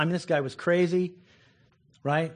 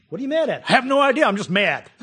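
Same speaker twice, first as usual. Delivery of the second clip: mock dialogue; 7 semitones higher, 7 dB louder, faster than usual. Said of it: "You ever been mad".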